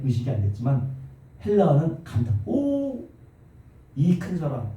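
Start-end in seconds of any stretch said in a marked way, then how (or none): 2.4-4.7 exclamation. Shown as a demonstration. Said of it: "이렇게 감탄하고 있는 거예요".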